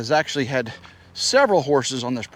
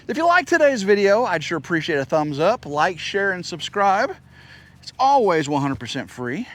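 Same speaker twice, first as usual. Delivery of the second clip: YouTuber sign-off; 3 semitones higher than usual. Acted. Channel sign-off.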